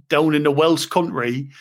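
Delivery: lightly put-on Welsh accent; a quick, jokey Welsh accent. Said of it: "that's my best Welsh accent".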